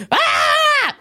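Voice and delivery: short high shout of a scream; mock scream. Her own body screaming at her, high mock scream. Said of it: "It's just screaming".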